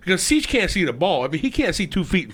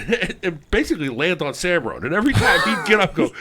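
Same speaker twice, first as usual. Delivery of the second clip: ordinary talk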